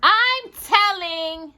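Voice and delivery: put-on high, slow squeal of a kid. A narrator's reading. Little brother pinned by Walter, squealing. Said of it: "Danny squealed".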